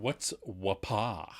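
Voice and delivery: puzzled. Retold or imitated. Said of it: "Ross just stands there like".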